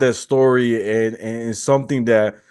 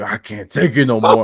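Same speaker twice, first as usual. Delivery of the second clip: put-on angry, furious voice. Retelling how a hungry customer complained about his pizza: imitating an angry customer. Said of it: "he got so mad".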